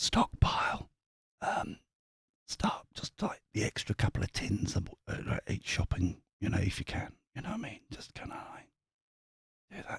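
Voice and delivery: very quiet, breathy, barely voiced whisper. Giving advice about stockpiling food, joking that it must stay quiet: whispering. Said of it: "Maybe if I just whisper it".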